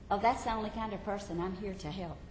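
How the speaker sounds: Jesus reassuring the struggling believer; gentle reassurance. Acted. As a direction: answer lightly, softly.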